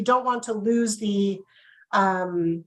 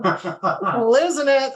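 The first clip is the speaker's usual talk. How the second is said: laughing; 2 semitones higher, slower than usual. Real, not acted. Giggling after hiccup fit.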